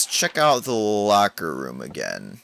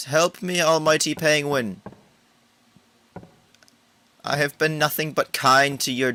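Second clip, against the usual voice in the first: high, louder pleading cry; loud mock plea; 7 semitones higher, 3 dB louder than usual. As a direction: beg the almighty Penguin, hammed up. Pleading loudly to the penguin.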